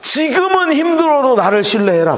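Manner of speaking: God's urging. Acted. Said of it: "그 뜻이에요".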